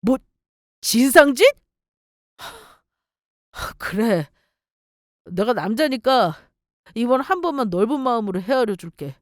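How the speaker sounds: lightly voiced self-satisfied boyfriend; a hint of an obstinate boyfriend, pushy and lively; boyfriend, condescending and stubborn. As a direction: make a grudging offer as if it were generous.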